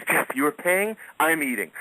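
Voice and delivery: tossing it off like a demand; imitating the Sheik. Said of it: "And he goes".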